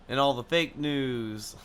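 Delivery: slow, drawn-out mumble; mumbling. Acted. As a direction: mumble it slowly. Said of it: "sorry for my mumbling".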